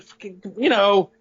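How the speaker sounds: mildly exasperated griping, retold; grumbled mock rant. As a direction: act out venting to a colleague, not at full force. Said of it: "I'm, I'm bitching".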